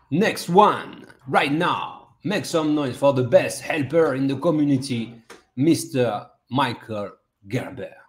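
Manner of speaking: ring-announcer build-up, spaced-out name; announcer introduction. Real, not acted. Host calling up next artist, showman's announcement. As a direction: introduce the next act to the crowd.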